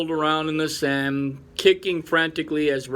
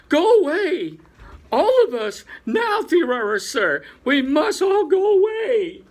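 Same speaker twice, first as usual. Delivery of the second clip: urgent cry; 11 semitones higher, 3 dB louder than usual. Acted. Fiber urges the Chief Rabbit to flee, loud. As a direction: go away, higher and louder.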